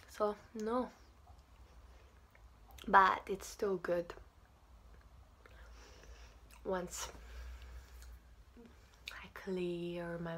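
talking around food; chewing while talking. Real, not acted. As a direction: mouth partly full. Seen 2: Pursed lips and working jaw; says she must clear her mouth.

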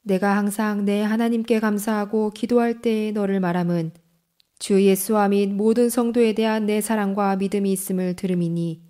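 normal talking voice

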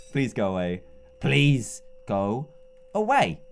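whisper-close pleading; second take soft and pleading; quiet plea. Real, not acted. Animatronic eye at the hole.

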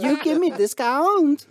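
high, loud, slow put-on Asian accent; mock Asian accent. Customer demanding a discount, loud mock Asian accent. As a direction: push the request in a hammed-up Asian accent. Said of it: "I did, and I don't give a fuck".

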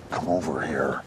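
coaxing. Real, not acted. Coaxing the fish closer.

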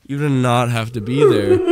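said through a laugh; amused laughing complaint. Real, not acted. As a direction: laugh while repeating it. Repeats with laughter.

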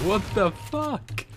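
lightly squeaky alien-sounding what the fuck; Ewok-like voice. Retold or imitated. Killed player mimicked like an Ewok, slow. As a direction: mimic a little furry creature, slow. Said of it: "He sounded like an Ewok".

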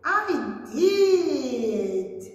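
put-on a different voice answering as a child; teacher voicing her class's reply; pupil voice. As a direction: answer brightly as a pupil would. Answers own question as pupil.

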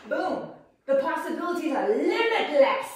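loud, high, showy announcer flourish; grand proclamation. Acted. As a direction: proclaim it like a showman. Hammed-up grand proclamation after demo.

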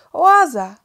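sudden high, loud cry; boy spotting the oasis, shouting. A narrator's reading. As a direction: cry out at the sight. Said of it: "krzyknął nagle Maciuś".

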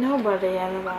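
quick secret whisper. Real, not acted. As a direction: whisper the answer fast.

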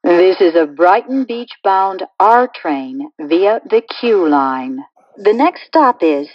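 recorded subway announcement stitched from clips; choppy prerecorded train announcement with pasted-in station names; spliced together words. Acted.

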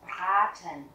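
Braten with a long, held A. Shown as a demonstration. Teacher showing learners the long A, long-vowel demo. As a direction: stretch the A in "Braten". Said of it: "mình đọc âm A dài".

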